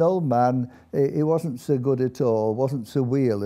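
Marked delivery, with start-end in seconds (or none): 2.5-3.4 light Yorkshire Dales accent on "weel"; Dales dialect. Shown as a demonstration. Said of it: "as they say up the Dales".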